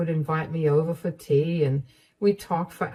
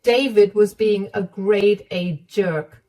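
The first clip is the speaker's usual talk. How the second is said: a touch higher, firm and kind; firm mother-in-law; 3 semitones higher, 3 dB louder than usual. Acted. Mother-in-law comforting Emma and condemning her son, firm. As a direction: reassure her, condemn him. Sarah scolds David, consoles.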